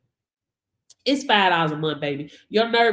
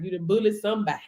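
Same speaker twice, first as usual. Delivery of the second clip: ordinary talk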